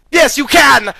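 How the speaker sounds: high, loud triumphant retort. Acted. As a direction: fire it back in triumph. Eowyn answers the dying foe.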